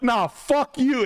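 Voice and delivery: hammed-up yelled comeback; mock shouted comeback. Yelling back at salesman.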